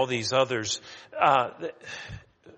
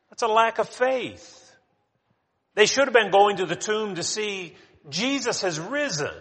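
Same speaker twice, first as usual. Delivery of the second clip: emphatic preaching; 7 semitones higher, 5 dB louder than usual. Real, not acted. Preacher rebukes the women's doubt.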